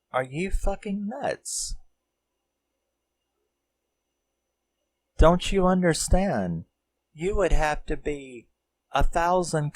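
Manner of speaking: high-pitched, mock-appalled retelling; incredulous outburst. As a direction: act out someone stunned by the foolishness. Acting out his appalled objection.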